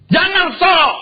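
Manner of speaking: high, loud stern repeat of "Jangan sok"; emphatic warning. Shown as a demonstration. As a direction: hit "sok" as a sharp rebuke. (peringatan keras "Jangan sok" dengan nada tinggi)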